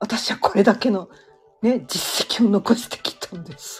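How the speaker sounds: put-on pained, forced grin through clenched teeth. Speaker acts out how someone might say it, with a mock-pained forced smile. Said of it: "すっごい苦しそうにこう作り笑顔で".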